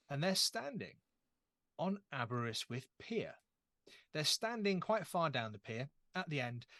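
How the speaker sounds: measured narration with long pauses; game master scene-setting. Acted. Telling players they await a friend's ashes ceremony, measured scene-setting. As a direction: set the scene slowly, pausing between phrases.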